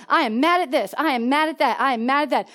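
imitated angry outburst. Daughter listing what she is mad at, mimicked anger. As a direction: hammer out each complaint like an angry kid. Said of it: "She just went off".

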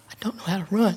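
mock crying. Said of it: "standing on the street corner crying".

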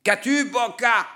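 high, loud call across the ice; shouted call. Acted. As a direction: yell to Bocca from afar. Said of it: "cria quelqu'un".

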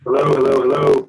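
metallic robotic connection distortion; choppy robot-y sound over the call. Real, not acted. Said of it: "It's pretty robot-y".

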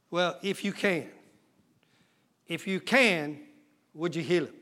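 soft, low, hesitant asking; half-hearted plea with no faith; doubtful murmur. Acted. Father doubtfully asking Jesus to heal his son, soft. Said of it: "the father's doubting plea".

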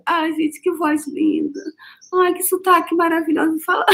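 high, swooning admiration of the voice. Retold or imitated. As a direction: gush like you're smitten. Imita-se encantada com a voz. (suspirando encantada, voz aguda)

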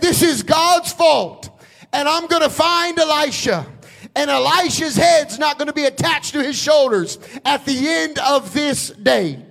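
angry king. Acted. King threatening Elisha, in an angry shout. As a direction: roar it out like a king at the end of his rope. Furious king blames God.

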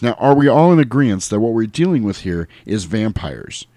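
emphatic movie-rant impression; George Clooney. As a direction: hammer out the speech like a fed-up leader. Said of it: "You got him, you got him".

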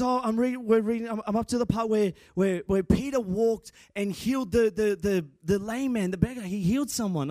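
a hint of an eager little kid explaining; dad quoting his son about his Bible reading, light boy voice; young son. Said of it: "And he goes".

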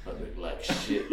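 softly whispered inner voice, laughing; lightly whispered inner thought. Retold or imitated. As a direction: mutter it under your breath. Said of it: "in your head you're like".

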